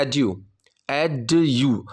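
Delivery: एडु said with a plain hard d; एडु as e-du, no j glide; wrong pronunciation. Shown as a demonstration. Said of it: "ये बिल्कुल गलत है".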